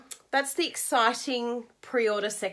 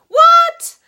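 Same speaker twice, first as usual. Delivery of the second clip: surprised shriek; 17 dB louder than usual. Real, not acted. Surprised exclamation at group count.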